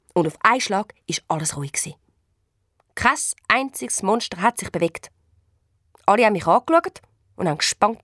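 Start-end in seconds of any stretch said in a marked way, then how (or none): none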